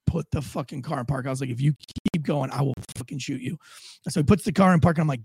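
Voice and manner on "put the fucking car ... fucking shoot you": low, soft retold warning; understated gunpoint menace; low threat. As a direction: keep the threat down low and controlled.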